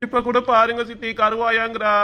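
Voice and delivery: whiny tearful tattle; sustained crybaby complaint to auntie; mock crying. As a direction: put on a wail while telling on someone. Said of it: "அட அழுவாத அஜய்".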